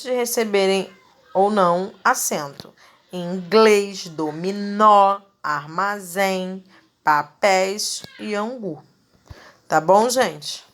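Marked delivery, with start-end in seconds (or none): 3.3-8.8 slow list with "dominó" drawn out on NÓ, "armazém" on ZÉM; final syllable stress. Shown as a demonstration. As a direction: hit the last syllable of "inglês, dominó, armazém, papéis e angu". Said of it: "pronunciada com maior intensidade".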